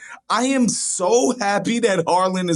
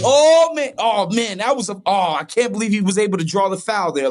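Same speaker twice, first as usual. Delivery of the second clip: acted amazement; 2 semitones higher than usual. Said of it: "in the big moments, conveying that".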